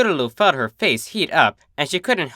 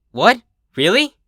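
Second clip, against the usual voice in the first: higher, louder delighted gasp; gasping surprise; 9 semitones higher, 5 dB louder than usual. A narrator's reading. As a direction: burst out in disbelief. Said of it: "Scootaloo gasped".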